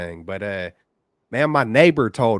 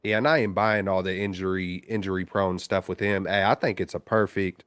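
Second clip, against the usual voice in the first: over the phone. Real, not acted. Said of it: "another caller on the line".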